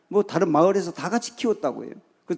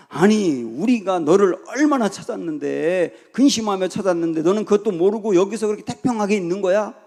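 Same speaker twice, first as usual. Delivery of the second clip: louder, exasperated mother's reproach, acted out; scolding mother; 4 semitones higher, 3 dB louder than usual. Mary to young Jesus after a long search, acted scolding. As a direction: act out a worried mother telling off her child. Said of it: "꾸중을 하면서".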